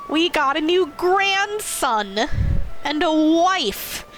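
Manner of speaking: slow, high, delighted; excited slow gush. Real, not acted. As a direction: savor each word, thrilled. Proud new family members.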